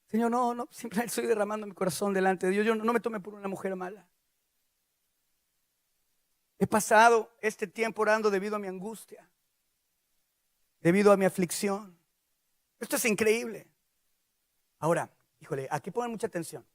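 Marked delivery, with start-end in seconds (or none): 0.1-12.0 subdued, understated confession of anguish; drained, defenceless plea. Acted. Ana too weak to defend herself, subdued plea. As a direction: explain yourself with no fight left. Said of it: "ya no tenía fuerzas ni de defenderse".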